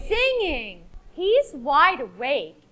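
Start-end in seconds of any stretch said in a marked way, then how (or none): 1.1-2.6 explaining giraffe. Acted. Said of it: "explained the giraffe".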